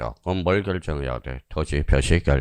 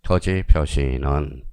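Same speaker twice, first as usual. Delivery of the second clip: "토지 표시는" slowly, word by word; measured teacher's reading of "토지 표시는"; careful reading demo; 3 semitones lower, much slower than usual. Shown as a demonstration. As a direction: read "토지 표시는" deliberately, separating each word. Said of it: "이렇게 읽어야 돼".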